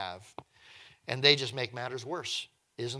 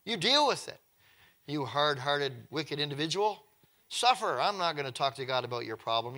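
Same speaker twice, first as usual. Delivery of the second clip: mock refusal. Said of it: "Moses could have said".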